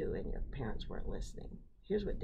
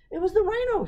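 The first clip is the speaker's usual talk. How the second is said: insistent; 10 dB louder, much faster than usual. Acted. Child defending herself to Dad.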